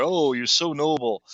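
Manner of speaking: imitated mocking praise; mock-admiring quote. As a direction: draw out the fake admiration. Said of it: "She's mocking him".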